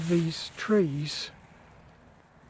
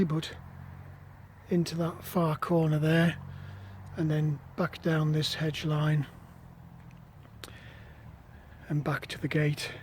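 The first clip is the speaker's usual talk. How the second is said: out of breath; 7 dB quieter than usual. Real, not acted. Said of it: "If I sound out of breath, it's because I am".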